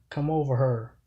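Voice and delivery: "her" said in place of "here"; Saint Louis pronunciation. Shown as a demonstration. Explaining the accent to viewers, Saint Louis "her" for "here". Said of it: "exactly how they say that same word".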